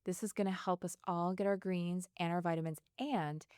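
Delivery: energetic, projected sponsor read; emphatic product pitch. Acted. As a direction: introduce the product like a podcast promo. Reads sponsor copy.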